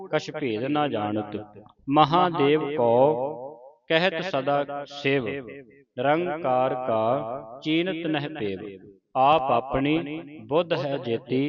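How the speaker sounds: slow, measured verse recitation; scripture recitation. Shown as a demonstration. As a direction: recite the verse slowly, drawing out line endings. (ਹੌਲੀ-ਹੌਲੀ ਪਾਠ ਉਚਾਰਨ)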